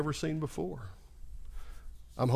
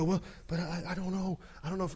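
1 hesitant doubter; 5 semitones higher, 5 dB quieter than usual. Retold or imitated. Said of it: "You go".

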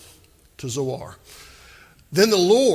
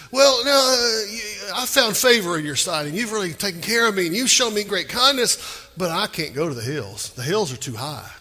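whining Lot; 3 semitones higher than usual. Retold or imitated. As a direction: beg off like a nervous bargainer. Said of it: "He says".

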